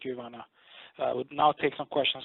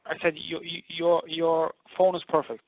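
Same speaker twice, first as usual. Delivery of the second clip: slow, louder, each word clear; louder repeat; 3 semitones higher, 4 dB louder than usual. Real, not acted. Host repeating to the boxer on a bad line, slower and louder. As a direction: make sure she catches it this time.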